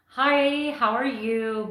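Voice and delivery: lightly voiced sweet TV housewife greeting; mock-polite hello with a lift at the start; a hint of a chirpy homemaker; Missus Cleaver. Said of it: "you're just like Missus Cleaver".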